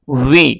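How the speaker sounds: উই said with both lips rounded. Shown as a demonstration. Teacher shows the waw sound with rounded lips. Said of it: "দুই ঠোঁট গোল করে উচ্চারণ হবে".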